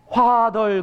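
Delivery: Father said as 화덜, with H instead of F; Father mangled into 화덜; mispronounced Father. Retold or imitated. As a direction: say 화덜 like a learner. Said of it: "그러더래요".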